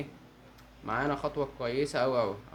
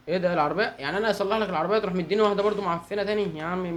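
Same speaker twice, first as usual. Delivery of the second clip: loud, higher-pitched grumbling protest; indignant complaint; 5 semitones higher, 7 dB louder than usual. Real, not acted. Player complaining to Roman about a rotten car, indignant complaint. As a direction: object loudly to a bad deal.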